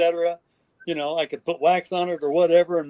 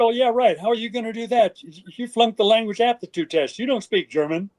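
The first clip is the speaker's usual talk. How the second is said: mocking disbelief; 5 semitones higher than usual. Headquarters mocking his plan.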